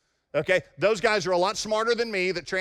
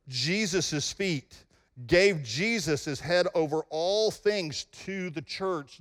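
scripture reading. Shown as a demonstration. Reads Ephesians slowly.

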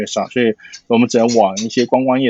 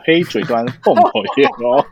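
Taiwanese Mandarin accent; slower than usual. Shown as a demonstration. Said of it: "我整个有点台湾国语".

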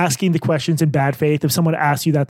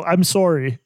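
Canadian accent; slower than usual. Shown as a demonstration. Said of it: "the cutest is when they go".

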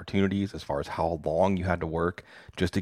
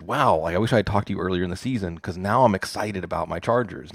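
retold fan's excitement, a touch of wow; excited quote, only slightly heightened; mildly excited. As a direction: lightly imitate a fan getting worked up. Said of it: "he was getting excited".

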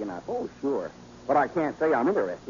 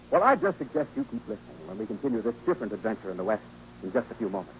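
announcer; 5 semitones lower, faster than usual. A narrator's reading. Announcer teases the next segment.

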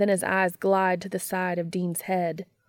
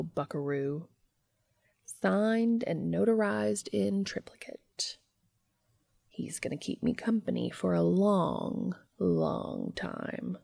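lightly voiced taunting entity, rather quiet; smug entity; 4 dB quieter than usual. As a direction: gloat a little as the entity, drawing out the boast.

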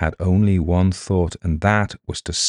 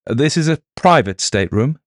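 mild startled protest, pitched up; blurted out; 8 semitones higher, 4 dB louder than usual. A narrator's reading. Reese objects to the intruder in his stateroom, blurted. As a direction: blurt it indignantly, higher. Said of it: "blurted Reese".

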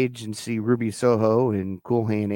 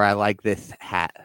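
lisp. Retold or imitated. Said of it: "I was trying to get his lisp in there".

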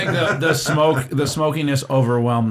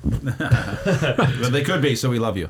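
laughing shout; 3 semitones higher, much slower than usual. Real, not acted. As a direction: call out through laughter. Joking appeal to possible sponsor.

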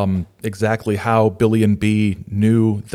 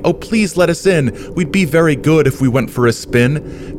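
higher-pitched storybook pleading; mild pleading; 6 semitones higher, 4 dB louder than usual. A narrator's reading. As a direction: plead lightly, as children in a rhyme. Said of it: "The twins kept on pleading".

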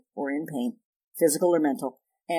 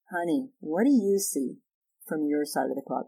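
a calm, caring question to a partner; tender invitation, trailing off softly; soft, slow, tender. Shown as a demonstration. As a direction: ask it gently, softer each time. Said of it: "literally use this phrase".

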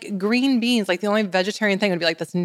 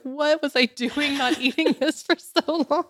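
amazed self; 9 semitones higher than usual. Retold or imitated. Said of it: "I was like".

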